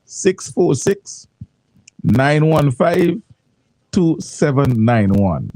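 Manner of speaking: each digit spoken slowly and clearly; slow dictation. Shown as a demonstration. Radio host reads the WhatsApp number slowly for listeners. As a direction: spell out the number slowly so listeners can write it down. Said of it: "Listen to me now".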